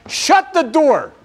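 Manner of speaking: high, drawn-out mock holler; John Wayne hollering. Captain orders the flooding compartment sealed, acted holler. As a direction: stretch the order out slowly, calling high. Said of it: "John Wayne hollers".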